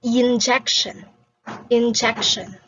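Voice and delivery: injection drawn out slowly. Shown as a demonstration. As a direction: say injection slowly, mouth visible. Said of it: "As you can see in my mouth, I said".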